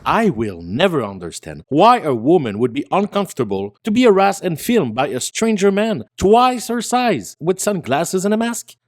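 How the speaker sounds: mock-baffled sarcasm, pitch swooping up; sarcastic. Commentator mocking the man filming a woman, sarcastic. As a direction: feign total bewilderment, laying the sarcasm on. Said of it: "He said sarcastically".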